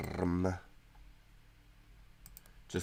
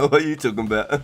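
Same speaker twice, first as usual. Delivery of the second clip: the line again, louder, amused disbelief; louder repeat; 3 semitones higher, 6 dB louder, much faster than usual. Real, not acted. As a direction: repeat it louder, half laughing. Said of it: "repeats own line louder".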